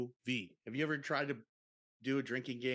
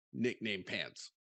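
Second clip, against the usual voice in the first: ordinary talk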